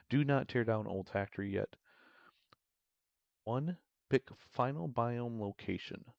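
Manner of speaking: measured narrator with deliberate phrase breaks. Acted. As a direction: read out the plan like a documentary narrator. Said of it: "do my best narrator voice".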